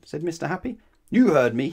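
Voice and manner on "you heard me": loud, higher grumpy snap; snapped. A narrator's reading. Mister Grumpy answering Mister Happy in his garden, snapping. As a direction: snap it out crossly. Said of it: "snapped Mister Grumpy".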